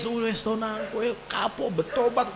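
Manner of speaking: soft, tearful parental plea. Retold or imitated. A parent begging a child to repent, soft tearful plea. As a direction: beg softly as if crying. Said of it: "sembari nangis gitu".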